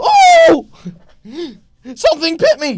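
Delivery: drawn-out, swooping shriek, very high and loud. Voicing a red cap stabbed from below: shrieking out. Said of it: "he suddenly shrieks out".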